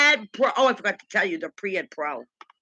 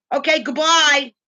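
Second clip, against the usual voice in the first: high, loud, drawn-out mock goodbye; mocking send-off, stretched and pushed up; imitating rude dismissal; 5 semitones higher, 8 dB louder than usual. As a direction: brush off a customer in mimicry. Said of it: "you don't talk like that to a customer".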